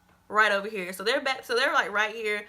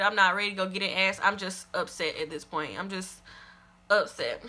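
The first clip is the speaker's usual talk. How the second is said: upset; 5 semitones lower than usual. Real, not acted. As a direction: let the anger drain into hurt. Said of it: "I'm upset. I'm not mad".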